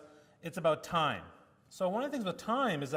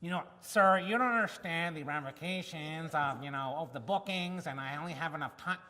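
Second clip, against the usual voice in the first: a hint of a condescending doctor lecturing; mock the haughty surgeon he expected, lightly; lightly voiced arrogant surgeon. Imagined surgeon brushing off the patient, mild condescension. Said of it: "So I was expecting someone to be just".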